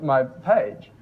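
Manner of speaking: subdued, halting professional thanks; understated business-polite delivery; professional register. Shown as a demonstration. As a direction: pick each phrase carefully, with long hesitations. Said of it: "of a professional level".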